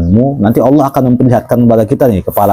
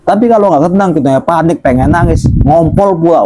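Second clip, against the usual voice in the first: high, whiny mock panic; 7 semitones higher than usual. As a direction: play the frightened kid for laughs. Mocks panicked person.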